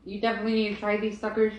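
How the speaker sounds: talking while chewing; chewing between words; mouth full. Real, not acted. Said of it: "hear me chewing".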